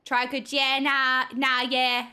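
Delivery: rough Australian yeah-nah; attempted Australian accent. Shown as a demonstration. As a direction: test out an Australian accent on a catchphrase. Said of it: "that was kind of Australian".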